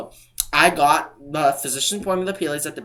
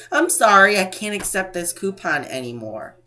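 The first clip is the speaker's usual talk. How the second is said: sassy cashier; 3 semitones higher than usual. Retold or imitated. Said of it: "so they can be as sassy as they want and say".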